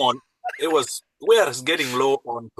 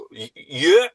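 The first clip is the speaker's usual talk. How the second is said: startled, higher and louder yeah; flustered; 5 semitones higher, 9 dB louder than usual. Acted. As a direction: caught off guard, answer the knock. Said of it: "a little bit flustered voice of Alvida".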